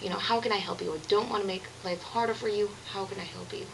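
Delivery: quietly reach out to a struggling friend; gentle offer of help. Retold or imitated. Friend offering help to the vlogger, soft and caring. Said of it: "she was just like".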